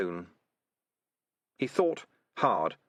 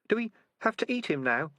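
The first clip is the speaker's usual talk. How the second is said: high squeaky rat voice; a timid little rat asking; 12 semitones higher than usual. Acted.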